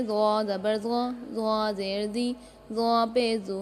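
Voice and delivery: "ज़ो" as a heavy emphatic voiced th, mouth full; dark, heavy "ज़ो" in a spelling drill; thick, full zaa. Shown as a demonstration. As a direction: say "ज़ो" thick and rounded, tongue tip at the teeth. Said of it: "इसको आपने मोटा पढ़ना है".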